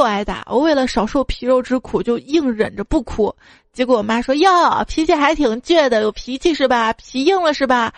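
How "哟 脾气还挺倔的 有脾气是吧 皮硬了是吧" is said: mock-taunting mom, pitched up at the start; taunting mother. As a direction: lightly act a mother goading her child. Retold mother taunting before a beating. (妈妈挑衅式的嘲讽口吻)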